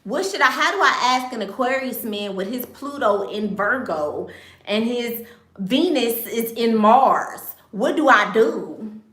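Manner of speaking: high, loud imitation of a confused fan; mock-whiny question voice; mock viewer voice. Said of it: "mocking a viewer's astrology question".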